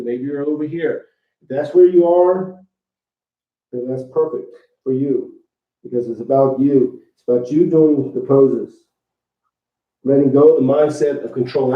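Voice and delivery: muffled, face down toward the floor; talking into the floor. Real, not acted. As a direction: speak with mouth aimed at the floor. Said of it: "I know I'm talking into the floor".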